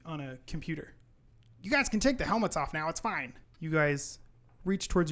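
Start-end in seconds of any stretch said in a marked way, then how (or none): 1.6-3.3 helpful elf. Acted. GM voices the elf.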